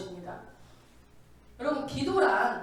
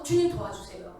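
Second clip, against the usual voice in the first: desperate plea; 5 semitones lower than usual. Shown as a demonstration. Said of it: "애타는 마음이 있을 때는".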